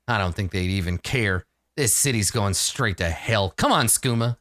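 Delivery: a touch of resigned grumbling, lightly in character; gruff-worded departing guard. Acted. Guard pocketing gold and leaving the mess, lightly voiced grumble.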